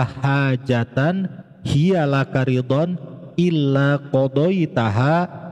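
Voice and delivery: slow, measured recitation with drawn-out long vowels; Arabic prayer recitation. Shown as a demonstration. Teacher models the hajat prayer for listeners, slow recitation. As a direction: recite the prayer phrase by phrase, lengthening the syllables.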